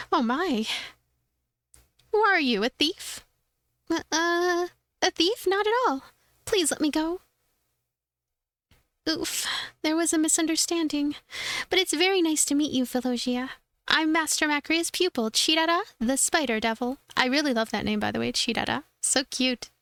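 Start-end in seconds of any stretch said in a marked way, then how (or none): 2.1-13.5 bright little helper, lifted high; high cute girl voice. Acted. Voices cute pupil Chirara. 13.9-17.0 bright little helper, lifted high; high cute girl voice. Acted. Voices Chirara introducing herself.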